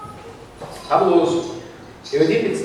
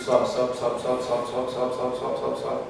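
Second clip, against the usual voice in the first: receding ascent; 5 semitones lower, 6 dB quieter, slower than usual. A narrator's reading. Spirit rising ever further, voiced.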